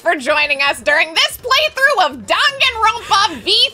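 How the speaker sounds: bear mascot voice. Acted. Co-host asked for a bear sign-off, cartoon bear voice. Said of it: "can you give us a bear sign off".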